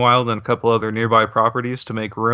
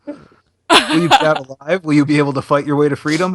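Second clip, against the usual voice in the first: horror trailer voice; 4 semitones higher, 4 dB louder than usual. Acted. Dramatic pitch questions.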